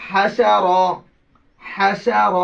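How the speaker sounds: হাসা light, then a thick, full র; heavy final র. Shown as a demonstration. Teacher models spelling for pupils, thick র after light হাসা. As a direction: end হাসা র on a heavy rounded "raw". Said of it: "রটা হবে মোটা".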